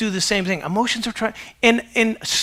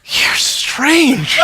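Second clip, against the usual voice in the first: laughing verdict; 5 semitones higher, 5 dB louder than usual. Retold or imitated.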